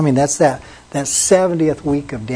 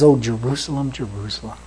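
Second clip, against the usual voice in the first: heartbroken; 3 semitones lower, 4 dB quieter than usual. Retold or imitated. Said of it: "his heart was being broken".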